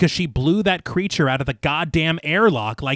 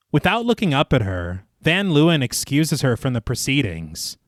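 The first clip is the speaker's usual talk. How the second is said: story narration; slower than usual. A narrator's reading. Narrator recaps the inquiry scene for listeners, measured storytelling. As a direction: read it like a polished audio storyteller. Reads scripted film recap.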